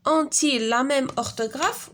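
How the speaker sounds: drawn-out reading, rising at the end; slow question reading. Shown as a demonstration. Teacher reading the exercise question to pupils, slow. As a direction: read the question slowly.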